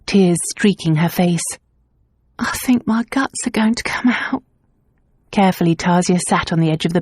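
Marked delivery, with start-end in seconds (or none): 2.4-4.4 weak whisper. A narrator's reading. Retching maid whispering.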